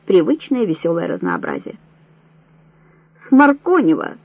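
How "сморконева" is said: loud call from the line; a name shouted back across a prison corridor. A narrator's reading. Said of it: "выкрикивала из строя".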